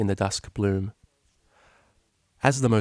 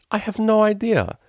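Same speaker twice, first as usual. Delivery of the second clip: high, louder through giggles; giggling; 13 semitones higher, 5 dB louder than usual. Acted. Octavia giggling at the absurd moment with Vinyl. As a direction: laugh the line out helplessly. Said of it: "burst into a fit of giggles".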